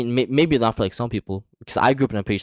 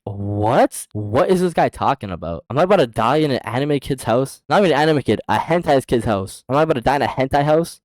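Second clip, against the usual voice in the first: rising mock-panicked questions; acted-out bewildered alarm; incredulous alarm; 3 semitones higher, 3 dB louder than usual. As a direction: build from stunned what to louder disbelief. Panicked disbelief at a threat.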